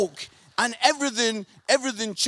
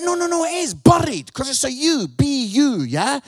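loud insistence; 6 dB louder than usual. Retold or imitated. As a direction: insist loudly, correcting the colleague. Insisting to office colleague.

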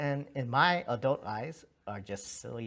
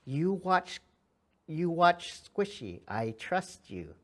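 daughter's plea; 6 semitones higher, 6 dB louder, slower than usual. Retold or imitated. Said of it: "she came in and said".

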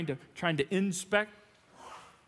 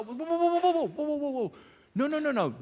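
whoa stop; 7 semitones higher than usual. Acted. Preacher cuts off complaining quote.

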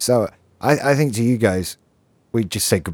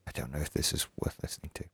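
whispered aside; 6 semitones lower, 17 dB quieter, faster than usual. Real, not acted. Muttered self-deprecating aside.

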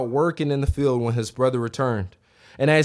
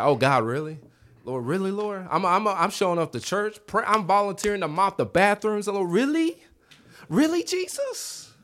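mock pleading, climbing higher and higher; incredulous complaint; 6 semitones higher than usual. Mock complaint to God about others' blessings.

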